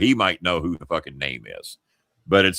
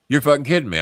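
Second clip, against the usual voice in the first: higher-pitched burst of disbelief; incredulous; 6 semitones higher, 3 dB louder, faster than usual. Retold or imitated. Mark hearing the firing confirmed, incredulous. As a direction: exclaim it, unable to believe it. Mark's second, stronger disbelief.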